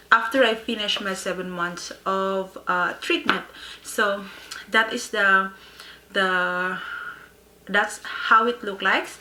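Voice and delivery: speaking with a slight lisp from aligners; lisping through new aligners. Real, not acted. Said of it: "I am having a lisp right now".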